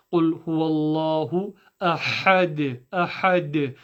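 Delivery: أَحَدٌ ending with a bouncing qalqala dal; echo on dal. Shown as a demonstration. Teacher contrasting echo letters for students. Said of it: "that extra little oomph".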